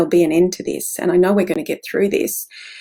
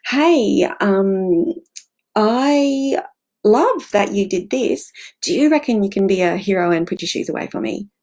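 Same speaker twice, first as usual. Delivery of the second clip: put-on sing-song baby-talk voice. Shown as a demonstration. A touch of parent coaxing a child to tidy shoes. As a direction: coax the kid like you'd talk to a pet. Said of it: "that voice we use to speak to babies and pets".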